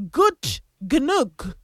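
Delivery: Gut Gnug said as two separate, careful words; careful pronunciation. Shown as a demonstration. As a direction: sound out "Gut Gnug" with a hard g before the n. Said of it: "the actual pronunciation of that song is".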